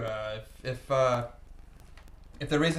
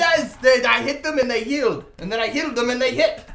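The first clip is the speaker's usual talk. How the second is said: high, loud storytelling; excited shouting; 8 semitones higher, 9 dB louder than usual. Acted. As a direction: insist on your crazy tale at full voice. Character excitedly tells his goblin tale.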